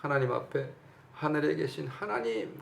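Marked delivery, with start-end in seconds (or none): 1.1-2.6 imitated prayer cry. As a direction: call up to heaven in a mock prayer cry. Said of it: "소리를 지르면서 어떻게 기도합니까".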